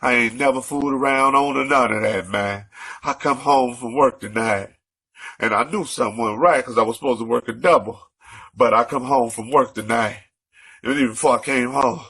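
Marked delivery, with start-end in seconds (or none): 3.0-12.0 winded, out of breath; breathless between phrases. Real, not acted. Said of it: "excuse me, I'm out of breath".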